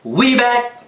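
drawn-out, high "boom"; hyped intro call. Shown as a demonstration. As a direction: stretch the boom, then punch it. Coaching the intro line.

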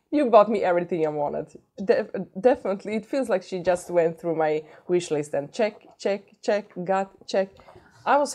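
fast, loud thrilled voice; excited. Real, not acted. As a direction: gush with excitement. Thrilled at gift list.

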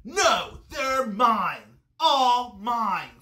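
high, loud possessive yell; story-time scream of a grouchy ladybug. A narrator's reading. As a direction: scream it like a greedy, grouchy bug. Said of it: "screamed the grouchy ladybug".

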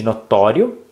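"notório" with the TÓ leaned on; stress on TÓ. Shown as a demonstration. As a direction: mark the middle syllable of "notório", no-TÓ-rio. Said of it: "o to". ("notório" com ênfase no TÓ)

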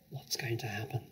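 breathy whisper, no voice; whispered question. Acted. Scared girl asking her friend what comes next, whispered. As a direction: ask it in a hushed whisper. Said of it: "Lavender whispered back".

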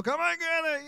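mom calling. Retold or imitated. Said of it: "His mom's ringing the cowbell".

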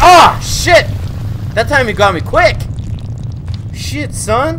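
loud high frustrated yell; frustrated shout. Real, not acted.

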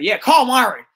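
excited call. Retold or imitated. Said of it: "they be like".

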